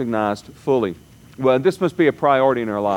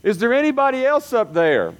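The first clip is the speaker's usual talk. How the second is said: skeptical man on a cliff; 10 semitones higher than usual. Retold or imitated. Cliff joke punchline.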